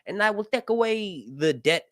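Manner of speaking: high, mock Italian Mario accent; bargaining in a cartoon Italian Mario accent. Sea Lord offering to wipe the debt in Mario accent. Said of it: "doing the Mario voice".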